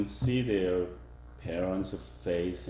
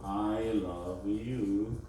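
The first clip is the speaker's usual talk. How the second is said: slow, drawn-out I love you; 3 dB quieter, much slower than usual. Shown as a demonstration. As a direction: stretch each word. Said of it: "For example".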